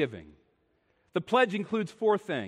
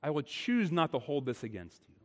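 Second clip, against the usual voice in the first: soft voice of God; 3 semitones lower, 5 dB quieter than usual. Acted. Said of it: "But God says".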